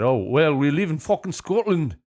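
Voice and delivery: put-on muddled stab at a Scottish accent; lightly put-on accent, badly faked Scottish; vague attempted accent. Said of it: "I don't know what kind of accent that was".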